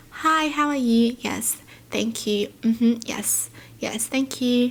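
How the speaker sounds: polite, sweet, gentle, sugary phone voice. Explaining how their phone voice differs, the speaker demonstrates it: soft sweet phone voice. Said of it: "my phone voice is a lot more softer and quieter and just sweet".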